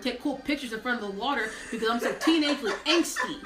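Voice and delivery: exaggerated normal Wichita accent; perky, sing-song Wichita teenager. Shown as a demonstration. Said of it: "I will just use my normal Wichita accent".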